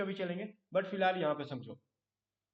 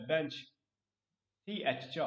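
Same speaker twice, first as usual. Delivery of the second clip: slow spelled-out demo; 2 semitones lower, much slower than usual. Shown as a demonstration. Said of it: "बेंच पढ़ते हैं ना इसको".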